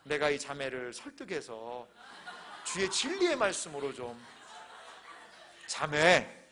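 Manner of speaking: low, slow musing, then a firmer address; hint of earnest pastor. Pastor admonishing a woman who came to tempt him, mildly solemn. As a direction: lightly play the solemn counsellor.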